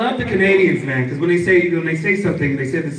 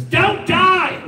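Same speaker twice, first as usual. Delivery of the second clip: put-on old husband quip; 11 semitones higher than usual. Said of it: "The guy goes".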